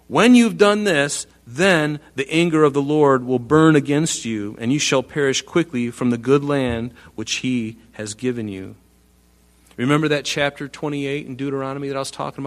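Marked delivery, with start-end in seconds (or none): 0.1-1.2 When you've done this, much higher, louder and slow; preacher driving the condition home; stressed condition. Shown as a demonstration. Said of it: "because here's the condition". 1.5-8.7 scripture reading. Acted. Reads scripture aloud to congregation.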